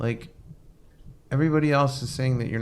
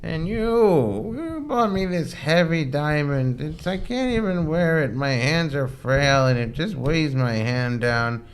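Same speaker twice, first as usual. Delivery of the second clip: a lightly voiced elderly mother, higher and slow; frail old mother; 5 semitones higher, slower than usual. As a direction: play the old mother complaining about the heavy diamond. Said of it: "He goes".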